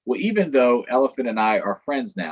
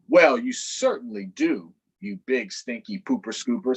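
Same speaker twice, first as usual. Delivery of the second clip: teasing donkey. Acted. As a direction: taunt him playfully.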